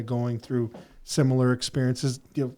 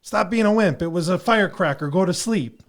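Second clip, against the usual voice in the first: higher and louder, a mock stern father; tough dad; 6 semitones higher, 5 dB louder than usual. Dad telling his scared son to toughen up, mock stern. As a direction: snap the kid out of it, dismissive. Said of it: "And I'll be like".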